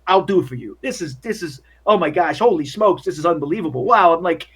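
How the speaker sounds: high, loud, giddy gushing; thrilled bellboy. Acted. Freddy thanking Miss Joyner for the cocaine tip, giddy and loud. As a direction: gush with giddy gratitude.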